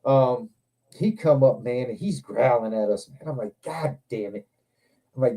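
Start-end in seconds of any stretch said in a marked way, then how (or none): 3.6-4.5 low-volume retold curse under the breath; quiet, dismayed aside; muttered dismay. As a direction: say it softly, as if to yourself. Retold dismay as dog growls.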